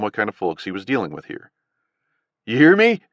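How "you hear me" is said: high screeching bark, louder. A narrator's reading. Gunman screeching at hidden Adam, high angry bark. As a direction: yell it shrill and sharp. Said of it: "the man barked, his voice screeching now".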